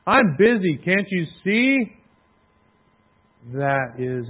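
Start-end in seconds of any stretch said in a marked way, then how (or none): 0.1-2.0 a hint of a busy, brushing-off father, higher; leicht gespielter abweisender Vater, kurz angebunden; dismissive dad. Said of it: "and he went".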